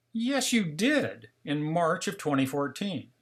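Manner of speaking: slow, high, concerned insistence on the first words. Retold or imitated. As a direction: insist like a worried wife. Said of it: "now getting very concerned".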